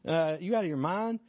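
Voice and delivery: lightly playing baffled fishermen; incredulous disbelief. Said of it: "the other guys in the boat are like".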